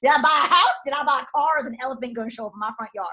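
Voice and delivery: high, hammed-up freak-out; mock panic. Coach mimics new joiners' holy crap moment, mock panic. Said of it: "had a holy crap moment".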